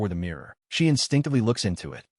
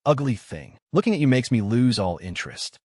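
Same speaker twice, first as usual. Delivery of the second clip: sneering. Acted. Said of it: "he sneered".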